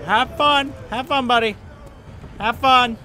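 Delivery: high, loud send-off; calling out. Real, not acted. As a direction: call it out high and loud to a buddy. Calling out to game character.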